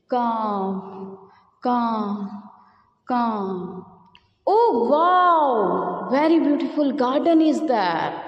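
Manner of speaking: thirsty crow. Acted. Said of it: "narrate this story in the form of dialogues".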